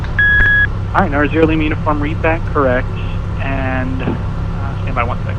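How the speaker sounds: phone-line audio, narrow and thin; over a landline phone. Real, not acted. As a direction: controller talking through a phone line. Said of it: "I'm on the landline".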